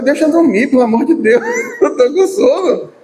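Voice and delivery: groggy protest, laughing through it; rudely awakened. Retold or imitated. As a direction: whine to be left asleep. (acordado bruscamente, reclamando)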